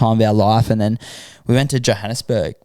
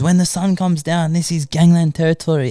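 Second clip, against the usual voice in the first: higher-pitched retold warning; dire warning; 5 semitones higher than usual. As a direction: imitate a guard stressing mortal danger.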